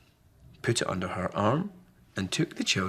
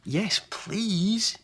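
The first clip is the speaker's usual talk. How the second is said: mild yell; 11 semitones higher than usual. Acted. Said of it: "yelled the children".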